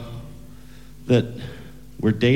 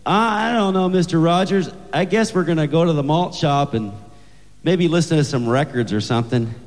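put-on higher, hesitant boyfriend voice; lightly voiced teenage boy; 6 semitones higher than usual. Boyfriend answers the girl's father about tonight, hesitant boy voice. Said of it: "And Bobby said".

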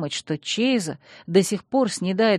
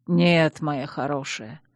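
tender; 4 semitones lower, slower than usual. Acted. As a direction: comfort her gently. Duke tender to heroine.

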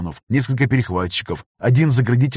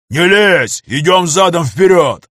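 higher, louder furious yell; angry shout; 6 semitones higher, 7 dB louder, slower than usual. A narrator's reading. Gunner angrily yelling at the pilot to back off, angry shout. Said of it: "злобно крикнул".

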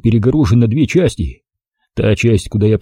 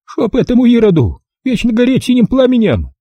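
put-on higher, brisk old-woman voice; old village granny; 12 semitones higher than usual. Old granny greeting the city visitor, high old-woman voice. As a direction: voice the feisty village grandmother. Tearful curse at toast.

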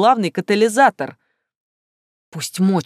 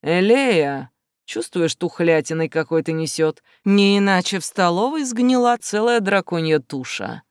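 smiling mockery. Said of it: "с улыбкой произнёс".

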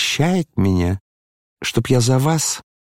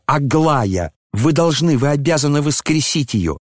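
mocking the prince; 5 semitones higher than usual. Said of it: "Вы и давеча сказали мне просто".

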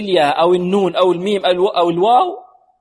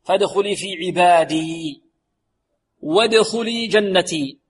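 slow, measured Quran recitation; careful tajweed chant; model recitation; slower than usual. Shown as a demonstration. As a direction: recite with long, sustained vowels. Teacher recites the verse.

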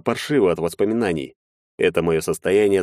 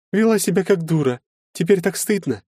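lightly voiced young woman; 12 semitones higher than usual. A narrator's reading. Anfisa apologizing to Maxim, higher girlish voice. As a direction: play the shy girl saying sorry.

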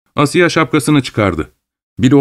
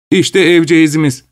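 mildly raised, higher-pitched call; 6 semitones higher than usual. Acted. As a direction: announce the house with a lifted voice. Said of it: "diye bağırdı". (hafifçe yükselen sesle seslenerek)

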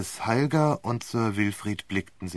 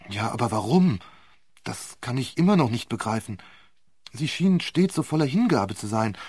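put-on bewildered young man; 3 semitones higher, 3 dB louder than usual. Vole bewildered by betrayal.

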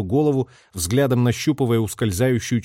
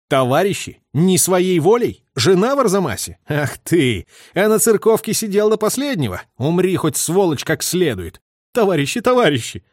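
high, loud sneering echo of his pleas; furious mockery; 6 semitones higher, 3 dB louder than usual. A narrator's reading. Orlov mocks the begging traitor, furious sneer. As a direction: throw his own words back in contempt.

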